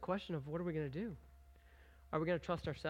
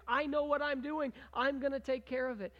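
self-reliant Israelite; 6 semitones higher than usual. Retold or imitated. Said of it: "That's what they were doing".

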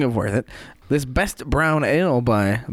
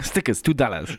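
street hustler; 3 dB quieter than usual. Retold or imitated. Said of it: "You sound like a street hustler".

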